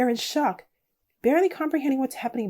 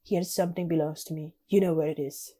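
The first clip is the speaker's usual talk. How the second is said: put-on lower, clumsy stab at a Russian accent; badly faked Russian accent, close to breaking into laughter; 5 semitones lower, 4 dB quieter than usual. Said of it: "he says in a thick Russian accent".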